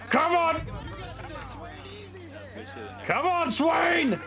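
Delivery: yelling from the sidelines. Real, not acted. Cheering fighter in betting game.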